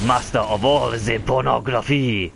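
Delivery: lightly put-on French accent. Voicing game hero Chris as a Frenchman, French accent. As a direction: play it as a mock Frenchman. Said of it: "I don't know why he's French".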